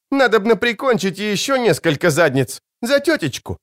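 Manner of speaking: put-on high, spirited young woman's voice; high girl voice. The wounded blonde vowing to kill for her aunt, high and spirited.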